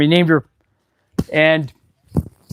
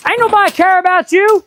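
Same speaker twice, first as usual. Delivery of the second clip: mock dismissive retort; 10 semitones higher than usual. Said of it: "this other dude's like".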